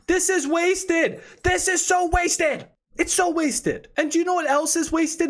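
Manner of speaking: mock-outraged rant; exasperated. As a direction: lean hard on so wasted. Ranting about insurance cost.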